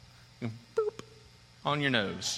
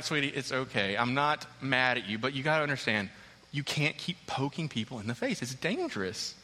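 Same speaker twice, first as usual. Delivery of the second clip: gentle explaining; 3 semitones lower, 3 dB quieter than usual. Retold or imitated.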